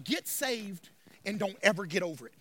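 low, soft, confiding take; hushed preaching. Real, not acted. Pastor summing up for congregation, low and hushed. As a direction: drop right down and say it quietly.

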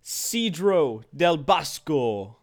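hammed-up fake Italian accent; badly faked Italian accent; horrible Italian accent. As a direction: say "Cedro del Bosco" like a cartoon Italian. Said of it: "horrible Italian accent".

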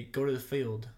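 "field" with a short I, like "filled". Retold or imitated. Guest quotes people back in Virginia, "field" as "filled". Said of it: "With a L. It sounded like they were saying F I L L E D".

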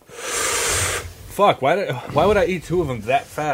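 gasping through burning mouth; mouth burning from spicy food. Real, not acted. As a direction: breathe out the heat in pain. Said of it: "I feel like a fucking dragon".

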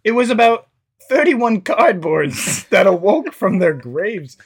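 lightly hammed-up horror storyteller, breaking into laughs; put-on story voice. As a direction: read a silly horror tale in a put-on voice. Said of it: "Do a voice".

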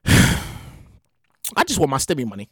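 low, soft, slow sighing plea; weary plea. Acted. Sighing to himself about stimulus money, deflated slow plea. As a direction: drag it out, deflated and pleading.

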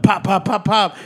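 rapid verbal gun pops; popped-out shots; imitated gunshots. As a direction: make mock gunfire noises. Imitates gunfire in story.

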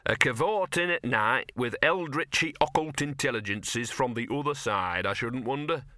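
lightly voiced dog, dark insinuation; talking dog, slightly annoyed. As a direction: insinuate it as a put-out little dog.

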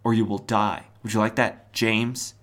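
lightly voiced threat, calm and even; a hint of a menacing hero. Spectre threatening the butler, lightly voiced menace. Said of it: "the Spectre says".

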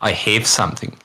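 "have" said as "hiv", clipped Kiwi vowel in "I have something"; light New Zealand "I have something"; Kiwi pronunciation. Shown as a demonstration. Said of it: "a Kiwi will go".

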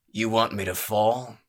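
loud, menacing growl; the brawler growls a loud challenge at the spider. Acted. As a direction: threaten him through the teeth. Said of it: "he growled".

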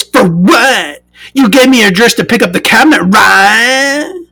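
high, fast snippy retort; snippy buyer voice. Retold or imitated. Buyer snapping back at the police threat, high fast voice. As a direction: fire it back quickly and high.

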